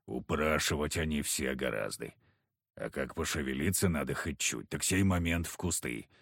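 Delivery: low, gruff backwoods hunter. Acted. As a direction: speak it low and heavy like a surly hunter. Kharisim scoffing.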